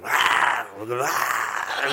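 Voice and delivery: mock demonic roar; rough "rah" yells, acted out; retold demonic yell. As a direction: imitate a startled yelling match. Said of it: "they yelled".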